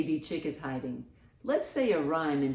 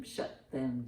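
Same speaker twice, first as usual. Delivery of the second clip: ordinary delivery, nothing marked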